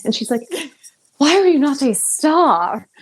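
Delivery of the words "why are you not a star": put-on much higher South African accent, laughing. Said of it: "I'm bad at accents".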